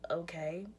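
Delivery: barely-there whispered okay; a lifeless whispered okay. Shown as a demonstration. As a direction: breathe the word, defeated. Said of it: "that's literally how my tone was".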